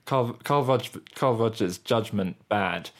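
choppy robotic keyword delivery. Shown as a demonstration. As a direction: say it in blunt, robotic fragments. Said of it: "let me try and say it badly".

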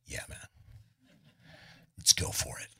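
very soft, low reluctant yes; half-hearted agreement. Retold or imitated. Singer agrees to promote friend's shirts, quietly half-hearted. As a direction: agree faintly, barely audible.

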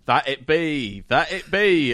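lightly voiced witch; a hint of a Blackadder witch. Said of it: "she says".

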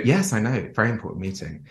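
high, gushing staged call; fake phone call. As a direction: ham up the good news. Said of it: "And then you go".

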